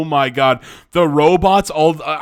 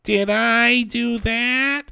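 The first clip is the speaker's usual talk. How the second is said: much higher, slow put-on nerd voice; second, higher try at the Urkel catchphrase; Steve Urkel; 8 semitones higher, much slower than usual. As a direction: pitch it way up and drag it out like Urkel. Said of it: "Let me give another take here".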